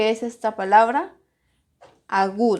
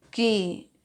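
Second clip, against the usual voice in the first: syllable by syllable. Shown as a demonstration. Teacher separating "química" in the exercise example, syllable by syllable. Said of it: "Separamos química".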